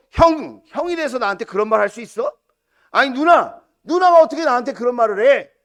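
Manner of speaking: hammed-up sibling quarrel; indignant protest. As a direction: protest loudly as a wronged younger brother. Acted quarrel with siblings, not done.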